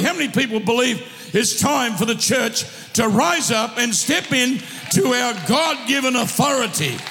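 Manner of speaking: rousing sermon delivery, calls ringing out; fired-up preacher calling his church to rise; full-force preaching. Acted. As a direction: drive it home to the congregation. Preacher exhorting congregation.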